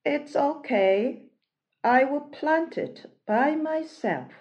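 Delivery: high, brave little hen; cheerful hen on her own. Acted. Hen answers alone.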